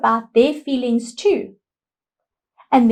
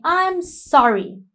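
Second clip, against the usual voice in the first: put-on slow, gentle, pitched higher, a truly sorry child; sincere sorry; 6 semitones higher, slower than usual. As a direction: friend gently apologizing for the broken toy, sincere and slow. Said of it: "And his friend is saying".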